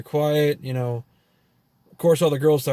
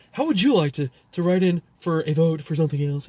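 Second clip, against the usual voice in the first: put-on phone salesman patter; telemarketer voice; 3 semitones higher than usual. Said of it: "telemarketer calling".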